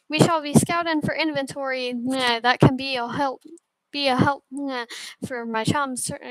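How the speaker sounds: lightly voiced sailor with odd verbal tics; hint of a cartoon ship's captain, stumbling on the tics. Captain briefing the new crew, lightly voiced character. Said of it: "Why does he have to talk like that?".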